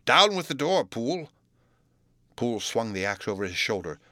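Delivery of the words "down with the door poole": high, forceful order; raised, commanding exclamation; urgent cry. A narrator's reading. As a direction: call out the command to a helper. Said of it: "cried Utterson".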